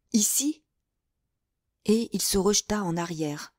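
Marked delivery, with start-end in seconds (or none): 0.1-0.6 breathless whisper of disbelief; stunned whisper. A narrator's reading. Jacques sees his fiancée in his cell, whispering in disbelief. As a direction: barely breathe it out, unable to believe.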